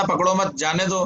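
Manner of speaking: "पकड़ो मत" as one phrase, then "जाने दो"; short break between मत and जाने; pause after मत. Acted. Acted speaker restates what he meant, pausing after मत. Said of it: "मैं तो कह के आया था".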